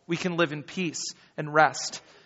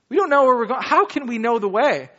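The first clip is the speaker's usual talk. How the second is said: higher, pleading confusion; bewildered Thomas; 4 semitones higher than usual. Retold or imitated. Pastor acting Thomas questioning Jesus, raised puzzled voice. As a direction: ask it like you're truly lost. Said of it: "how he says it".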